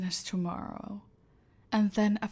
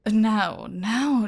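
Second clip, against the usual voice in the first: patronising chide; 8 dB louder than usual. Acted. Chiding captive before she speaks.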